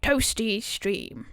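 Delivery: slow English accent imitation. Streamer copying a British viewer's message, English accent. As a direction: echo it slowly in an English accent. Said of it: "English accent".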